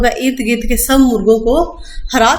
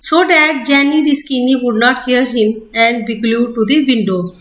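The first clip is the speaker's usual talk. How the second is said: slow, deliberate textbook reading; measured classroom reading; slow reading aloud; much slower than usual. Acted. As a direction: read each word out carefully for students. Rereading the text slowly.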